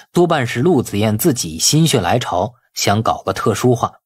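ordinary delivery

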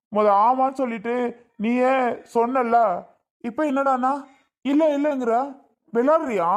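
husband frustrated with wife denying it, rising and sharp; rising anger. Acted. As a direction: push her harder with each word. Husband angry at wife's denial.

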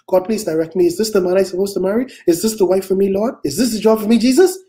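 lightly mimicked anxious believer; rising questions, imitating someone begging God; mock pleading prayer.

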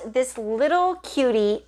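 "little" picked out with emphasis; stress on little. Real, not acted. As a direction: lean on the word "little". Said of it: "emphasis on the word little".

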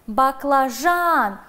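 slow "Баклажан" with the stress on ЖАН; stress on the syllable. Shown as a demonstration. Teacher dictating a word for a stress exercise. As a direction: draw out "Баклажан" and land on ЖАН. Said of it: "Ударение падает на третий слог".

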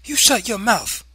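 high, loud command to hush; angry scolding. A narrator's reading. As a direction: cut the child off angrily. Mother silences child angrily.

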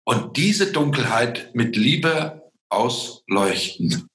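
slow, measured preachy delivery; unhurried, earnest moral conclusion; mild preaching. Real, not acted. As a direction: drift slowly into a little sermon. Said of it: "jetzt fange ich an zu predigen".

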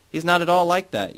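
put-on drunken objection. A narrator's reading. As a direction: blurt the denial like a drunk girl. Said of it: "Yara objects drunkenly".

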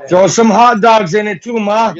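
hollering to his mom in the kitchen; calling out to mom. Real, not acted. Gamer yelling to his mom for hot dogs, loud call.

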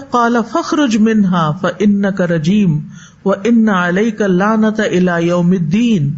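slow, measured chanting of the verse; slow reverent recitation; Quranic recitation. Acted. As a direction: recite it like tajweed, unhurried.

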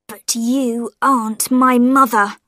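ordinary delivery

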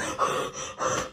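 sharp gasp for air, barely voiced; quick winded inhale; breathless gasp. Real, not acted. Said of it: "out of breath".

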